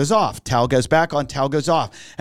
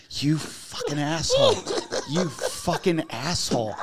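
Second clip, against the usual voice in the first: retold anger; 5 dB quieter, slower than usual. Retold angry victim confronts pranksters.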